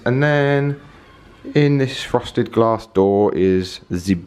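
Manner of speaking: a quick mock German accent; playful German accent mid-tour. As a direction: slip into a light put-on German accent. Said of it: "I don't know why I went into a German accent".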